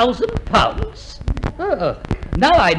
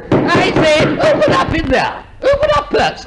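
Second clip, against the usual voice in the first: calling through door; 3 semitones higher than usual. Acted. Inspector calling through a closed door.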